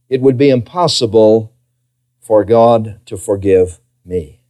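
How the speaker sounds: acted despair, sinking low and slowing; hopeless sinner. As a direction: let it drop to a hopeless conclusion. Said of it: "somebody in this congregation tonight that would say".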